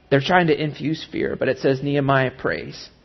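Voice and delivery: normal talking voice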